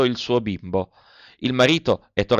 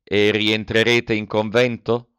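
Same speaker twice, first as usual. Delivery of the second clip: domanda rauca e lenta; hoarse, slow; slower than usual. Acted. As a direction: lascia la voce roca dall'emozione, adagio. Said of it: "ma la sua voce era rauca". (lui chiede a Maria del convento, voce rauca e lenta)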